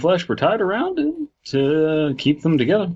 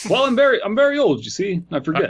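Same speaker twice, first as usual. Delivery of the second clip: Bernie Sanders voice; 5 semitones higher, faster than usual. Acted. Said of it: "Mister Sanders".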